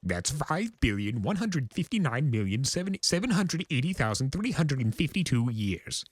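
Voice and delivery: high, theatrical chaos spirit boasting of his age; grandiose Discord voice. Acted. Discord boasting to the Pegasus, high and grandiose.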